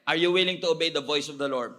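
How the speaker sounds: loud, ringing question to the crowd; preacher's challenge. Real, not acted. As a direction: call the congregation to answer.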